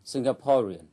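Singaporean with the weight on PO; sin-ga-PO-rean, third syllable stressed. Shown as a demonstration. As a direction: land on PO in Singaporean. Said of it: "trọng âm rơi vào âm tiết thứ ba".

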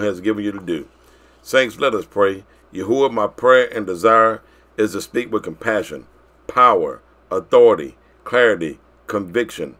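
measured, reverent prayer delivery; opening prayer. Real, not acted. Preacher praying for the saints before the lesson, prayerful. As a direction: pray it evenly, pausing between petitions.

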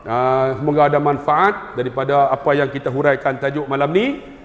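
ordinary delivery

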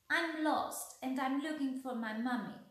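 duckling telling beaver she is lost, wailing. Acted. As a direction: cry it out like a lost little one. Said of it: "wailed the poor little duckling".

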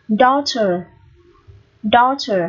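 "Daughter" with a long open O. Shown as a demonstration. Teacher modelling the AU for students, long O in "Daughter". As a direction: hold the AU in "Daughter" as one long O. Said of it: "được phát âm là âm O dài".

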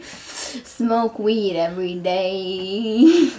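dragged-out, lazy stoner line; slow stoner drawl. Acted. Bitch number three offering weed to the boy, slow and stoned. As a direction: let it ooze out slow and stoned.

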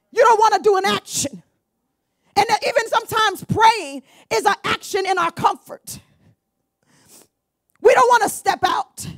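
preaching harder, pitch up; rising preaching. Real, not acted. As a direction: lift it into full preaching. Preacher raising voice.

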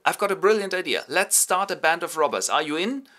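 a student leader fired up on a table; excited brainwave. Acted. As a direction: pitch the idea with a burst of excitement. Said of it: "jumps onto the table".

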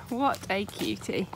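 ordinary talk, nothing marked

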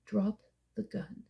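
soft, slow, menacing whisper; quiet threat. A narrator's reading. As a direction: breathe it into his ear.

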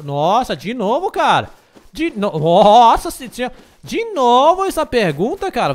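loud exasperated complaint; exasperated outburst. Real, not acted. Exasperated at repeated question. (explosão exasperada, bem alta)

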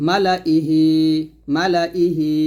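মালা ইহি read quickly with no stretch on the লা; মালা ইহি clipped short, no madd; quick recitation. Shown as a demonstration. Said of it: "এরকম তাড়াতাড়ি করে পড়বো".

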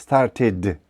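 "Started" ending on a short voiced D; "Started" as "star-tid", D brief but voiced; short voiced final D. Shown as a demonstration. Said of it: "коротко, але дзвінко".

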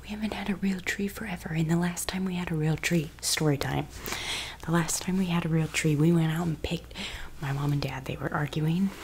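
unvoiced whispered story time; ASMR whisper.

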